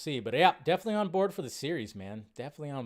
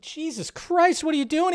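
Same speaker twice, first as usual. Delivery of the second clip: exasperated disbelief; 12 semitones higher, 4 dB louder than usual. Retold or imitated. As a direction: stretch it out in shocked disbelief. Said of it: "I was like".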